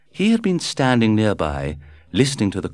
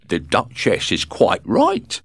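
slow, measured little professional man; palm reader voice; 2 semitones higher, 3 dB louder, slower than usual. A narrator's reading. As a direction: read it like a solemn fortune teller.

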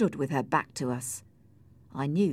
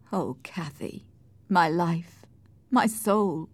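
full of pain; slower than usual. Acted. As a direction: grieve aloud, phrase by phrase. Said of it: "a voice full of pain".

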